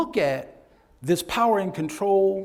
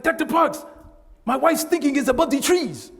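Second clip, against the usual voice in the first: higher, louder voice of a client; quoting an African client; 10 semitones higher, 5 dB louder than usual. Retold or imitated. Instructor quoting an African client, higher and louder. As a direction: voice the client complaining earnestly. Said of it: "he was like".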